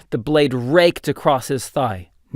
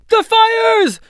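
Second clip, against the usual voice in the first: much higher and louder commanding yell; urgent shout; 6 dB louder than usual. A narrator's reading. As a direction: yell the order across the camp. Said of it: "shouted Erlach".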